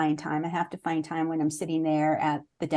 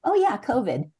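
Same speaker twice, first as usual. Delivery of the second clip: louder and higher, the answer dawning; sudden realization; 6 semitones higher, 5 dB louder than usual. Retold or imitated. Answering her own question about surprises, a sudden louder realization. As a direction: blurt it out as it hits you.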